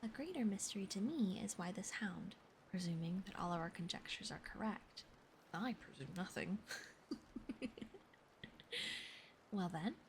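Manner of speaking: ASMR whisper reading; whispered story reading. Acted. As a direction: read it to them in a hush.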